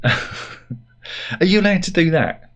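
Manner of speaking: slow, giggling high question; amused at cheeky rude joke; laughing. Real, not acted. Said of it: "laughing at his own joke".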